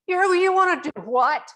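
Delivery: high, gently surprised question; a kind but incredulous high ask; said nicely. Retold or imitated. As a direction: ask it kindly, hiding the shock. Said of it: "I said it in a nice way".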